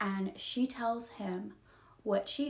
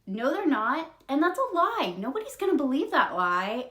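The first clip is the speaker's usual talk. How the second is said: higher, mildly angry acted objection; mad retort; 5 semitones higher, 4 dB louder than usual. Elizabeth's dad disputes the officers' lie, acted mad retort. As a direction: argue back, acting put out. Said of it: "Elizabeth's dad is so mad".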